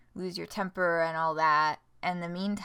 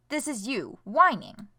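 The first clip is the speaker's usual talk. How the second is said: dad mimics his daughter's whining, lightly higher; mock whiny voice; 5 semitones higher, 5 dB louder than usual. Dad mocking his daughter's complaining, a touch of whiny mimicry. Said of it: "imitates her in a high-pitched voice".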